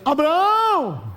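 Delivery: high, slow drawn-out call of Abraão; Sara calling out. Acted. Sara calling her husband from the tent, long call. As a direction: stretch the name out like calling across the camp. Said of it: "ela sai da tenda e diz".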